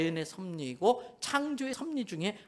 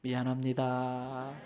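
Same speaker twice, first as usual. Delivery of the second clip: slow, gentle; slow sincere apology; 6 semitones lower, slower than usual. Shown as a demonstration. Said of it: "한 번 더 옆 사람 보고".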